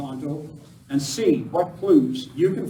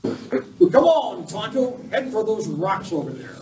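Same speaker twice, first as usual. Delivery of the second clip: raised, high call under fire; urgent call; 6 semitones higher than usual. Acted. Lone Ranger calling Tonto during the ambush, urgent raised call. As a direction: shout to the sidekick to take cover.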